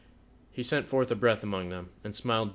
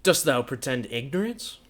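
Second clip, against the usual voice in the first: scowling; 5 semitones higher, 5 dB louder than usual. A narrator's reading. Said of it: "scowling upon her".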